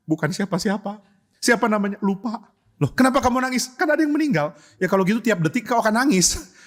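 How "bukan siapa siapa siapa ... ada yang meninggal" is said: weepy churchgoer. Acted. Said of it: "datang ke gereja nangis-nangis".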